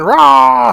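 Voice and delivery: high, loud drawn-out "rah"; mock pep-rally scream; motivational yell. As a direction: roar it like a hyped-up seminar coach. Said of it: "they'll be yelling and screaming".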